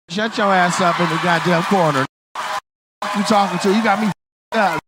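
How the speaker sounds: loud, comic telling-off; mock angry outburst. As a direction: snap loudly at the heckler, playing mad.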